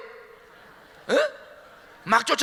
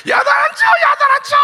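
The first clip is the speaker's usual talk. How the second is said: high, loud insistence; loud insistent mother; mother shouting promise; 12 dB louder than usual. Acted. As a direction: shout the reassurance at the door.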